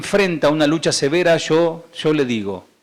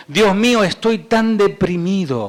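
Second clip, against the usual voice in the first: raised pitch, slowing into the lament; psalmist's cry; 5 semitones higher than usual. Acted. Preacher reading another version of the psalm, raised lament. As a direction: cry out to God, drawing out the end.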